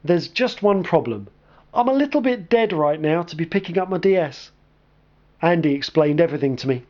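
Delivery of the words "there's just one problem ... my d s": incredulous. Acted.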